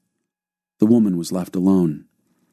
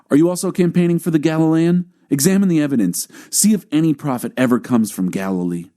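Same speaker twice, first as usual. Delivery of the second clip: snapped mocking retort, higher; cutting him off; 8 semitones higher than usual. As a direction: interrupt with scornful challenge. They cut Nicodemus off.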